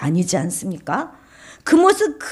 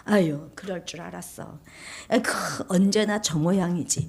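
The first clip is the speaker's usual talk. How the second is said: understated, disapproving gossip; veiled blame; 4 dB quieter than usual. Acted. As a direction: tut about someone behind their back. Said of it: "은근히 비난합니다".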